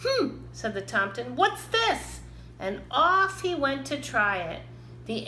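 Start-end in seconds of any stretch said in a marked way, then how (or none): 0.0-0.4 puzzled hmm. A narrator's reading. Tomten puzzled by acorn. 1.3-2.2 puzzled. A narrator's reading. Tomten puzzled by acorn.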